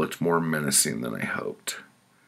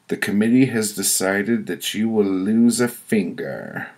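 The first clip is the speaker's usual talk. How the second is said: stern pronouncement, pitched up; higher-voiced woman passing judgment; committee woman; 5 semitones higher, 4 dB louder than usual. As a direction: hand down the verdict as the judging woman. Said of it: "A woman with white curly hair spoke".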